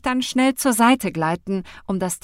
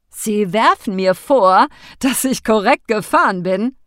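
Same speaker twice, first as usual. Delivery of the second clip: outraged disbelief; 2 semitones higher, 9 dB louder than usual. A narrator's reading. Driver outraged by her accusation.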